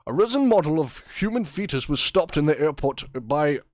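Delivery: clumsy mock newsreader delivery; news anchor voice. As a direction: read it like a TV anchor. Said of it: "do the first paragraph in a news anchor voice".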